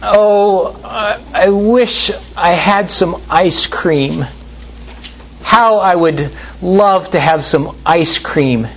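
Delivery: put-on high, sighing child's whine; whiny child.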